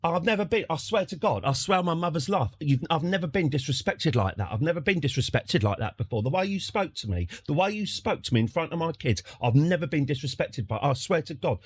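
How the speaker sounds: mock indignant complaint, repetitive and rattled off; imitated aggrieved moaning. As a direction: moan on like an affronted customer. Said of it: "what he was moaning about".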